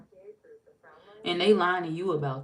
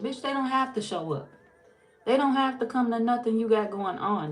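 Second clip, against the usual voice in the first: sassy, higher pitched "Bitch, they don't have to show up"; heated defense; 5 semitones higher than usual. Real, not acted. Defending the Virgo against a fake friend, sassy and heated. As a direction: snap back for the Virgo.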